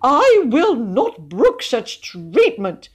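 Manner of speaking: high, loud, slow indignation; outraged high-pitched protest; furious. A narrator's reading. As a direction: declare it in pompous fury. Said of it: "he stammered in fury".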